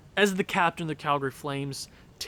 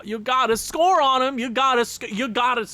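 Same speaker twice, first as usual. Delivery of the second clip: urgent pleading; 7 semitones higher, 5 dB louder than usual. Real, not acted. Urging team on power play.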